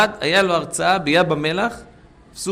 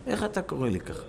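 hurt protest; 3 semitones higher, 9 dB quieter than usual. Retold or imitated. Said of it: "אמר".

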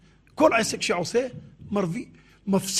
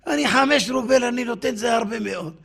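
higher, louder opening in acted protest; indignant haggling; 4 semitones higher, 5 dB louder than usual. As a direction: protest like an affronted rich man. Rich man refuses the large sum.

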